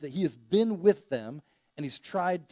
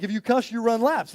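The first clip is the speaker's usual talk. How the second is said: firm coach rule; 5 semitones higher, 7 dB louder than usual. Retold or imitated. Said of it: "But he was like".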